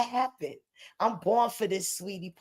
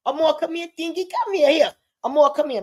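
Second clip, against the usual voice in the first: calling out; 4 semitones higher, 3 dB louder, faster than usual. Real, not acted. Calling child to phone.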